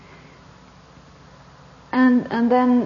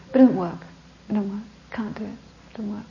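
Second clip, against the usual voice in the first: imitating the boy, fading; 3 dB quieter than usual. Young man tells the teacher it does not work, lightly voiced, fading. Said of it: "he says to me".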